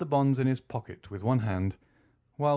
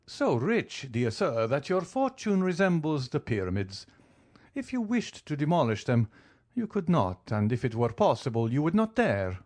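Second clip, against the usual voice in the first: good-natured pleasantry; 5 semitones higher than usual. Acted. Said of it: "the good-natured pleasantry of the count".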